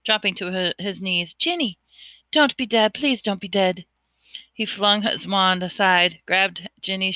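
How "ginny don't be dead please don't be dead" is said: pleading. Acted. Harry pleading over Ginny.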